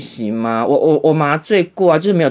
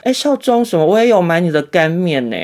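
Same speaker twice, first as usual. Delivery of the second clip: high, bright fan greeting, raised pitch; excited nurse; 4 semitones higher than usual. Retold or imitated. Nurse greeting the vlogger, an excited lifted voice. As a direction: gush like a nurse who just recognized him. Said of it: "另外一个护理人员说".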